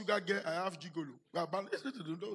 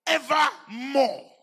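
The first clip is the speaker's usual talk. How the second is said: drawn-out shout; 3 semitones higher, 8 dB louder, much slower than usual. Acted. Preacher booms the verse's last word at the church, long shout. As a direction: stretch Evermore into a long, loud shout.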